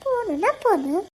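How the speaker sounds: sulky insist. Acted. Wife insists, sulky and quiet.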